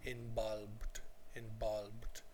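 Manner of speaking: "involved" with the v said as a b, like "inbolbed"; Spanish-learner mispronunciation. Shown as a demonstration. Teacher imitating Spanish students' error, b for v in "involved". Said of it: "Spanish students particularly have problems with this".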